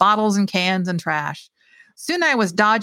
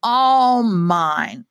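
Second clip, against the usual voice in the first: taunting; much slower than usual. Acted. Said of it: "taunting me now".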